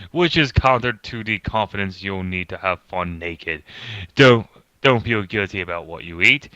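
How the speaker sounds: put-on pompous British accent, reading aloud. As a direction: read it like a pompous British narrator. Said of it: "read it in a pompous British voice".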